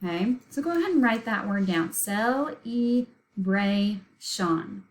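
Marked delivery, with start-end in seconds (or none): 1.9-4.8 "Cel-e-bra-shon" very slowly, syllable by syllable; think-to-spell pronunciation. Shown as a demonstration. Teacher dictating for pupils to write it down, slow separated syllables. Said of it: "we said it slowly and broke it up".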